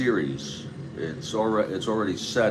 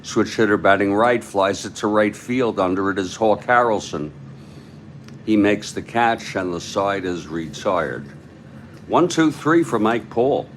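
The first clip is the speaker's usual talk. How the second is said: baseball announcer calling a catch; live play-by-play. Acted. Announcer telling listeners the side is retired, play-by-play. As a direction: follow the ball through to the out.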